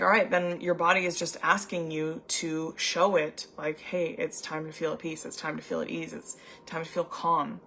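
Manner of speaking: a soft reassuring murmur; soothing advice. Retold or imitated. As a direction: ease her into calm gently. Quoting her soothing advice to client.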